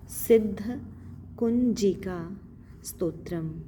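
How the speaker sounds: सिद्ध कुंजिका स्तोत्रम syllable by syllable; each word recited slowly for the learner; slow recitation. Shown as a demonstration. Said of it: "सिद्ध अर्थात सफलता". (धीमा पाठ)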